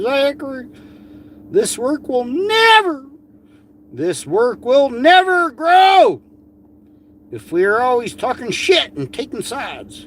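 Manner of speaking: high mock-earnest woman, rising to a shout; mocking Amy voice. Mocking a critic's pleading letter in a high put-on voice.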